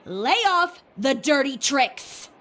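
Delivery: slow, deliberate scolding, each word spaced; stern repeated warning. Retold or imitated. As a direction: spell it out slowly like a final warning. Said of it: "allow me to refresh your memory".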